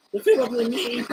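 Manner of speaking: squeaky-high, pitched far above normal; highest voice. Shown as a demonstration. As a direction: say it in your very highest voice. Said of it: "As I say it in my highest voice".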